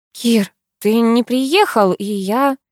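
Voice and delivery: slow, faltering, trailing off; haltingly. Acted. Karina begins confessing to Kir, slow and halting. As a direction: struggle to find the words. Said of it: "начала несвязно".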